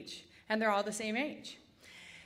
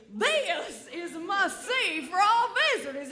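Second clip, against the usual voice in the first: higher and louder robotic guide voice; mock GPS announcement; 6 semitones higher, 5 dB louder than usual. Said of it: "and then Steve would say".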